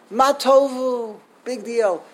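scoffing "ma tovu", rising as if to ask what's so good; mock a so-what "ma tovu... big deal"; dismissive question. Shown as a demonstration. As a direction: shrug off "ma tovu" as nothing special. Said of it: "I want you to change the inflection".

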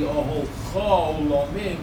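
ohol cho lo mim slowly, losing the ayin; hypothetical mispronunciation. Shown as a demonstration. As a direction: sound out ohol cho lo mim deliberately as a faulty example. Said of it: "if you had said".

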